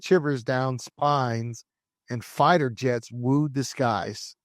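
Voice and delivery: slow, deliberate storyteller read; dramatic scene-setting narration. Acted. Host taking listeners back to the eighties, dramatic narration. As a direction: set the era like a documentary opener.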